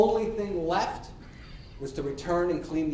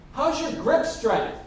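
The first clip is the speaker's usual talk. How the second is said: lightly voiced girlfriend, higher and slower; higher, drawn-out question called across rooms; calling girlfriend; 8 semitones higher, 3 dB louder, slower than usual. Girlfriend asks Bob from the bathroom, slow high call.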